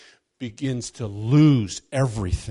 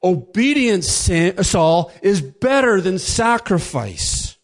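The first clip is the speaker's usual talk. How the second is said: higher, louder, slow pronouncement; stern declaration; 6 semitones higher, 5 dB louder, slower than usual. Retold or imitated. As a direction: lay down the verdict. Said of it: "goes on to state".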